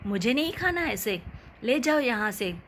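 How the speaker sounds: a touch of grumpy anger, lightly voiced; angry refusal. Mother-in-law refusing the khichdi, mildly angry. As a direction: push the plate away in mild mock anger. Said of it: "सास गुस्से से".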